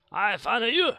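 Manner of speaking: high, loud squawk rising at the end; mock triumph. Player crowing at finding Murdoch, high mock triumph.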